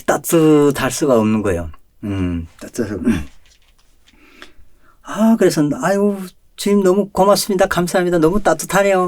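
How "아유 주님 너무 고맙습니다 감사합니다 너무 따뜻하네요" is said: high, loud, overflowing gratitude; rapturous thankful prayer; gushing thanks. Retold or imitated. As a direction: thank the Lord with a full heart. Grateful prayer in the dream.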